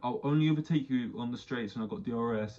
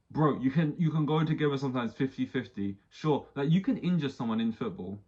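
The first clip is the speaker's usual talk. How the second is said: louder, pushing protest that fifty fifty is fair; exasperated rant; 2 semitones higher, 4 dB louder than usual. Retold or imitated. Fan arguing with the referees, louder and exasperated. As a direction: argue it out like a fed-up fan.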